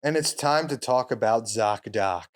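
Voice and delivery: a hint of a cold reptile. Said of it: "his weird, uh, reptile voice".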